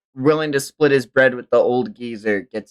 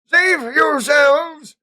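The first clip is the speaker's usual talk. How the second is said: panicked cry; 4 dB louder, much slower than usual. Acted. Character shouting in panic.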